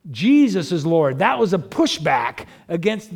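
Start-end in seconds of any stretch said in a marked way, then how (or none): 0.1-1.2 louder, declared with conviction; firm confession. Retold or imitated. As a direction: ring out the confession. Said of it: "If you confess with your mouth".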